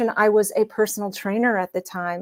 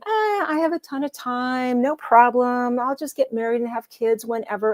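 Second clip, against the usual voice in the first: breezy, higher mock nonchalance; carefree younger self; 4 semitones higher than usual. Mocking her younger self's breezy thoughts about having kids, carefree. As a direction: brush it off like there's all the time in the world.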